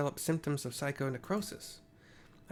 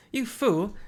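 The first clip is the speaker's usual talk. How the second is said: angry shout; 7 semitones higher, 7 dB louder than usual. Acted.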